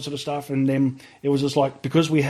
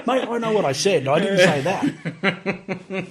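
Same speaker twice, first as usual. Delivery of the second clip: arguing back; 7 semitones higher, slower than usual. Retold or imitated. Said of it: "this big yelling match".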